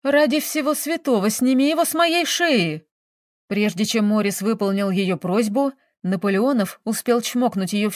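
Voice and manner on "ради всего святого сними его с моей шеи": high, pleading cry. A narrator's reading. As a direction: beg for rescue, voice raised high. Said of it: "взмолилась Мирослава".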